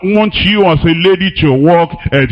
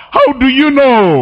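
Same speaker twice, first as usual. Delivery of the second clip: incredulous challenge; 7 semitones higher than usual. Acted. Preacher mocking churchgoers' claims.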